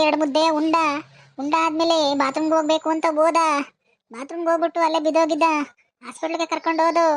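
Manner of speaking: acted mourning wail; tearful lament. Widow telling a visitor how her husband died, tearful lament. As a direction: recount it as a grieving lament, understated. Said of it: "ಇನ್ನು ಅಳ್ಬೇಡ ಸುಮ್ನಿರಮ್ಮ".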